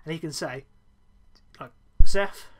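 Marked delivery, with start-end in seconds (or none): 2.1-2.5 nearly Dutch accent. Shown as a demonstration. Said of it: "I nearly did a Dutch accent".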